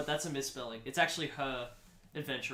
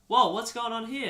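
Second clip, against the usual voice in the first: higher, louder startled question; dad character; 7 semitones higher, 5 dB louder than usual. Acted. Dad coming downstairs onto the scene, raised startled voice. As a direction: burst in demanding an explanation. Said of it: "comes downstairs and goes".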